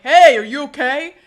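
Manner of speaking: loud, slightly hammed-up check on a friend; concerned call-out. Voices bosun checking on friend.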